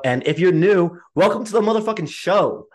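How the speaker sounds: big, high, showy host welcome; hype welcome. Real, not acted. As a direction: throw it out like a show opener. Welcoming new listeners.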